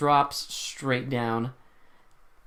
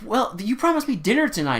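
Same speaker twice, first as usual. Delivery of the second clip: higher-pitched mock complaining woman; imitated girlfriend; 9 semitones higher, 4 dB louder than usual. Woman reminding detective of a dinner date, imitated complaint. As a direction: play the let-down date, pitched up.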